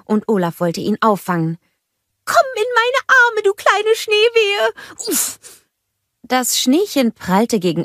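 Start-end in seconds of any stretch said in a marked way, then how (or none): 2.2-5.4 cheery greeting. A narrator's reading. Olaf greeting the snowgies, high and happy. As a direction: call out warmly to the little ones. Olaf tries to catch one.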